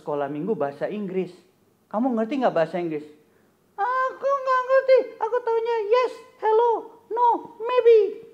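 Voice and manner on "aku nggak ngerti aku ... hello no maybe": put-on very high childlike puppet voice, pouting; a little puppet friend sadly telling news; squeaky puppet voice. Puppet Kobun telling the host his brother stayed away, high puppet voice.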